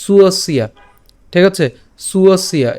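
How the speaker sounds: "সুয়সিয়া" as one careful falling word; joined pronunciation. Shown as a demonstration. Teacher repeating for learners to copy, careful "সুয়সিয়া". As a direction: start "সুয়সিয়া" on su, gliding through. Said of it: "এভাবে উচ্চারণ করতে পারেন".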